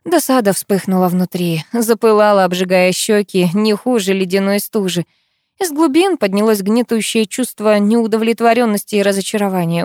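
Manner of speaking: usual speaking voice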